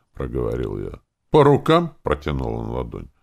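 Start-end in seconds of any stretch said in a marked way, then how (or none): 1.3-2.0 high, loud question; offer to shake. Acted. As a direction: put the offer out brightly. Elf offers a handshake. (высоко и громко)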